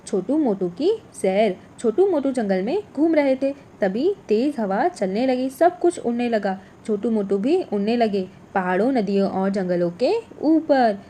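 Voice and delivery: put-on lively storybook reading for young pupils; reading a story to children. Teacher reads a children's story aloud in class. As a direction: tell it brightly like a children's tale.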